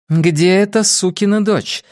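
sharp, high angry question; angry demand. Acted. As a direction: demand it with rising fury. Furious woman demands the traitor.

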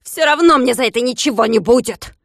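angry yelling. Acted. Klops still yelling.

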